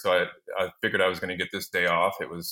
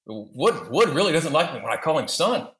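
mock manager; 7 semitones higher than usual. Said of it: "He's like".

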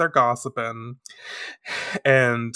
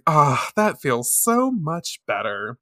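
acted relief; slower than usual. Acts out Mercury's relief after kill.

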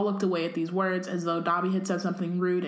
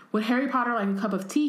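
light squeak, higher and quick; an eager little elf offering tea; squeaky elf voice; 4 semitones higher, faster than usual. Acted. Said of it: "he squeaked loudly".

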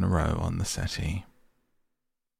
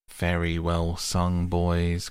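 a hearty call, a little louder; 3 dB louder, slower than usual. Acted. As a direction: cheer the singers on heartily. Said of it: "cried the Rat heartily".

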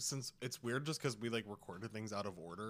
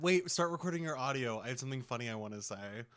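imitating Clary; 3 semitones higher, 5 dB louder, faster than usual. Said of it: "Clary said".

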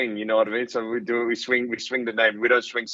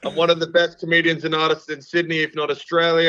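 cocky self-promo; 6 semitones higher than usual. Acted. Mock self-promo brag.

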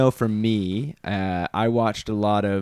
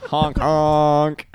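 honk noise; 4 semitones higher than usual. Shown as a demonstration. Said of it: "I guess honk".

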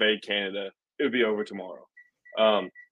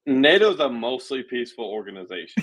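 deadpan irony through a chuckle; dry mock praise, half laughing; sarcastic with a laugh. Cohost joking about NATO, sarcastic and laughing.

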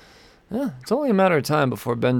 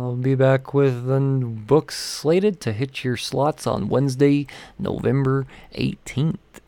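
odd put-on read. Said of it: "I don't know why I said it like that".

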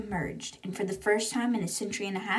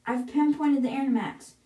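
mild shout. Acted. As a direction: call out urgent news without full shouting. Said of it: "And Jim shouts".

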